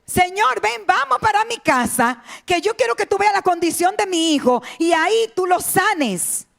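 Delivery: súplica insistente en tono agudo; ruego imitado. Retold or imitated. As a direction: ruega como un padre apremiado, más agudo. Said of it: "lo que le rogó al Señor". (súplica actuada de padre)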